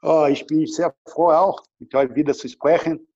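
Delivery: rusty German with Brazilian accent; non-native German, Brazilian accent. Real, not acted. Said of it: "mein Deutsch ist schon ein bisschen weg".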